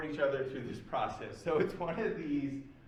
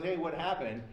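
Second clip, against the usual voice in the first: retold teasing yell; 2 semitones higher than usual. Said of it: "Terry yells from the other side".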